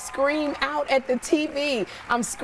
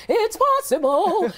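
hopeful; 9 semitones higher, 3 dB louder, slower than usual. Retold or imitated. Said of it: "So I'm going".

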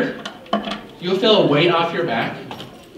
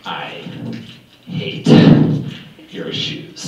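mock insult; 13 semitones lower, slower than usual. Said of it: "I yelled at it".

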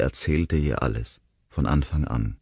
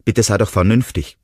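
pleading; 6 semitones higher, 7 dB louder than usual. A narrator's reading. Will suplica.

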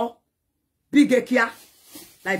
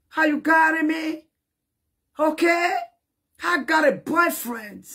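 defiant shout; 4 semitones higher than usual. Real, not acted. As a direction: fling the question out. Defiant boast to critics.

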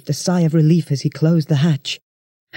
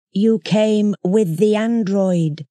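alien creature voice; 4 semitones higher, much slower than usual. A narrator's reading.

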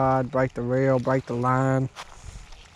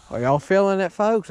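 hyped; 6 semitones higher than usual. Real, not acted. Hyped addressing viewers.

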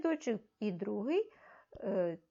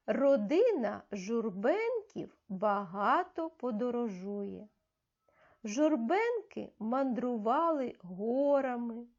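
put-on reading aloud for children. Shown as a demonstration. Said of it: "Я читаю, ви за мною пальчиком слідкуєте".

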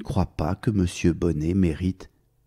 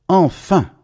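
excited cry; 8 semitones higher, 6 dB louder than usual. Acted. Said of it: "dit le chapelier".

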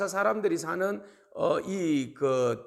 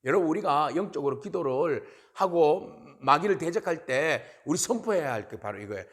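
usual speaking voice

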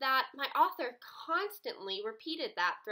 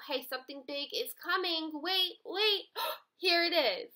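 higher, rising to a gasp; suspense building; 4 semitones higher than usual. Retold or imitated. Author telling the reader something big is coming, building excitement. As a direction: tease the big reveal. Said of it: "She wanted you to know".

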